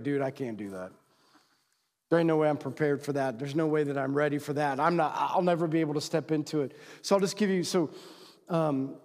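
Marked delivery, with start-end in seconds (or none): 0.0-6.7 low, subdued refusal; defeated protest. Acted. Man at the end of this message, defeated protest. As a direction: back away from it, low and unsure. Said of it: "you're gonna be like".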